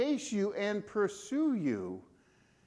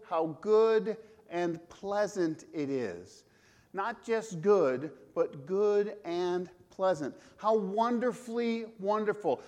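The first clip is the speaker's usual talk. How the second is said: slow savoring; slower than usual. Acted. Savoring psalm words slowly.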